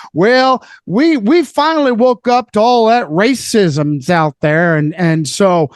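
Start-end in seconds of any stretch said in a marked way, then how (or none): 0.1-4.8 mock Southern accent, drawn-out slow words. Guest mimicking people who claim they woke up, in a Southern accent. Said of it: "Southern accent".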